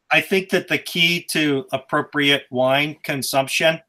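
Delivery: slow flat monotone delivery. Shown as a demonstration. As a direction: drone it out with no inflection. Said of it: "do you like that monotone voice".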